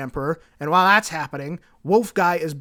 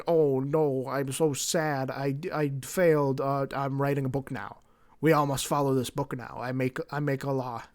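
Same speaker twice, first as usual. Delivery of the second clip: mock sad; 2 semitones lower, 4 dB quieter than usual. Gilliman lamenting his failure to his brothers, mildly mock-sad. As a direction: lightly play a mopey leader, words dragging.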